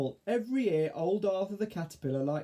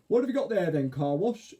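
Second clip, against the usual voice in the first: caterpillar voice; 4 semitones higher, 5 dB louder than usual. Acted. Arthur character voice.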